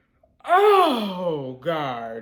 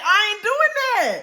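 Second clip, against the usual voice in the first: higher, slower, drawn-out refusal; firm refusal; 9 semitones higher than usual. Retold or imitated. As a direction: stretch out "I ain't doing that" in disbelief. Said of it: "and we literally said".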